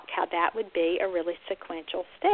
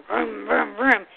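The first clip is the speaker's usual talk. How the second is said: engine noise; 4 dB louder, much slower than usual. Shown as a demonstration. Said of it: "something like boom or crash".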